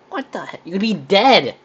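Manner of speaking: high, loud disbelief; shocked. Real, not acted. Reacting to the mustard-chugging dare, shocked and loud. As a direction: recoil at the crazy dare.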